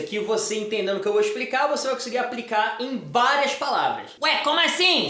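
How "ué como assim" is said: higher-pitched puzzled question; acted-out bewildered question; puzzled viewer. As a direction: ask it as a baffled student would. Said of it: "você tá se perguntando".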